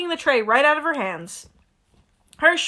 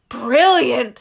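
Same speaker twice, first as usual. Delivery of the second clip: louder, delighted; eager twins; 6 dB louder than usual. Acted. Twins delighted by the dark alley, louder. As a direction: relish the forbidden place. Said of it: "said Fred and George together".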